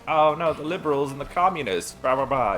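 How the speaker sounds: mock alarm. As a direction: mimic someone ranting about liberals, mockingly. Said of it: "he was doing the whole, like".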